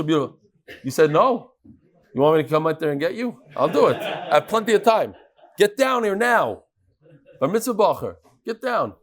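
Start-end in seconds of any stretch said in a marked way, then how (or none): 5.6-6.6 slow, drawn-out mock-stern order; insistent. Real, not acted. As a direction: spell out each word as a firm summons. Teacher insists boy come down.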